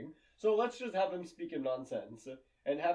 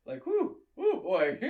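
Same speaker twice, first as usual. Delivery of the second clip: excited whoop; 11 semitones higher, 6 dB louder, slower than usual. Real, not acted. Hollering about hot mom.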